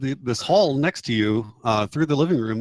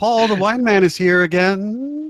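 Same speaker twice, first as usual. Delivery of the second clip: put-on small child's voice, high and slow, calling out; 8 semitones higher, 5 dB louder than usual. Voicing a small child calling out for Paul in another room: small child calling out. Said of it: "you hear a small child calling out".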